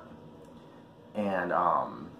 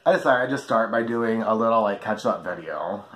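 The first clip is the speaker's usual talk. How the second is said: cigarette in mouth; 2 semitones higher, 4 dB louder than usual. Real, not acted. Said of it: "let me light my cigarette".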